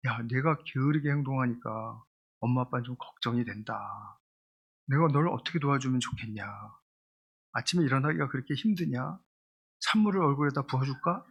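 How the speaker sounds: gentle I-message. Shown as a demonstration. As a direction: speak softly as a parent who wants to help. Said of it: "아이 메시지는".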